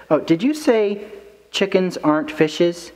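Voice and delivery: high, questioning mock check; confused listener. Player asking back what they just heard, mock confused.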